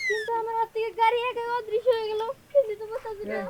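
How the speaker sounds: whimpering, half-crying bewilderment; scared crying. Acted. Thief crying in fear as the bike disappears, mock wail. Bike vanished from his hands.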